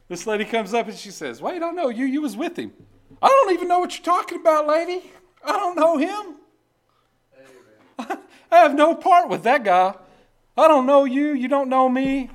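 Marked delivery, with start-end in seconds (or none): 1.4-2.7 high, pointed accusing woman's voice; accusing lady. Acted. A lady in the porch calls Peter out, high and pointed. 3.2-12.3 loud, high, fast protesting; frantic denial. Acted. Peter brushes off the lady, loud, high and flustered. Peter denies knowing Jesus.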